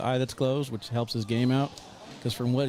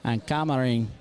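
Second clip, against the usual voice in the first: put-on light Mexican-accented play-by-play, lively; a touch of a Mexican sportscaster calling each shot; Mexican commentator. Co-host as Perrito calling the match, light Mexican accent. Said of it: "I'll bring on the Mexican commentator".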